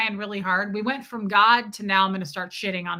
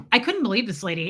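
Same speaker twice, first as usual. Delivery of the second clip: normal talking voice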